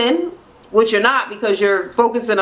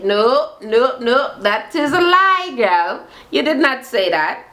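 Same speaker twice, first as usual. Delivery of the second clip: mock indignant; 3 semitones higher, slower than usual. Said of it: "Nico calling out a lie".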